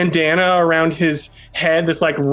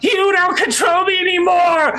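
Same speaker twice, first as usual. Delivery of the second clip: defiant shout. Acted. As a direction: throw off the master with a yell. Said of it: "he's like".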